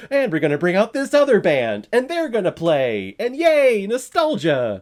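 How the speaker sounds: loud, high-pitched mock stage announcement; pop star hyping the crowd. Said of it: "the pop star is like".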